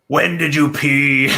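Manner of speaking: slow, half-laughing mock nurse; nurse question. Nurse at three in the morning, mock question. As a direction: ask it slowly, laughing. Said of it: "they go".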